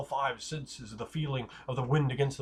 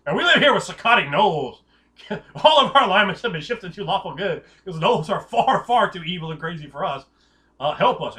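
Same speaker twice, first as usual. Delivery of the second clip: orc envoy; 3 semitones higher, 7 dB louder than usual. Retold or imitated. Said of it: "the orcs come to you like".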